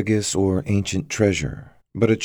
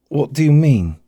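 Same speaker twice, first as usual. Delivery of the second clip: high, raised-voice question; said out loud; 9 semitones higher, 6 dB louder than usual. A narrator's reading. Damien to the stranger at the entrance, calling out loud. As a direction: call the question out. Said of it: "Damien said out loud".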